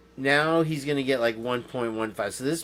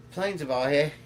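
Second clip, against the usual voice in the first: mock Australian accent, played for laughs. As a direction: imitate a comically casual Australian. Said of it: "an Australian can't say something without you laughing".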